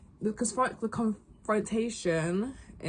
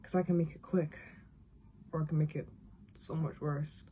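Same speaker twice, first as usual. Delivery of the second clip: second try at a cold threat, quieter still; hushed, lightly acted menace that drops away softly; Ellie; 3 semitones lower, 8 dB quieter than usual. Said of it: "this is Ellie, okay?".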